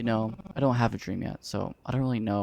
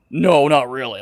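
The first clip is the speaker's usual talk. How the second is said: mocking quote; 3 semitones higher, 9 dB louder than usual. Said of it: "what do you fucking mean".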